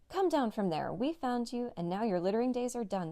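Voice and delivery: mild shout at the bandit in the tree. Acted. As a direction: call it up firmly. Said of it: "they shouted".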